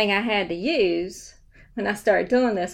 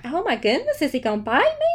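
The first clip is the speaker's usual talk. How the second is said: higher-pitched, mildly startled question; mock alarm; 5 semitones higher, faster than usual. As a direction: play up a touch of retold alarm. Acting alarm at the barking dog.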